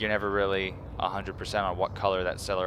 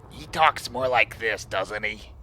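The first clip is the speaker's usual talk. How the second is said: higher pitched voice; slower than usual. Shown as a demonstration. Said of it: "Higher pitched?".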